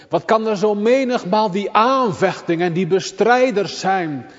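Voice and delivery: high, loud, urgent pulpit voice; preaching at full force. Acted. Preacher urging the congregation, loud and high. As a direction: press it home to the congregation.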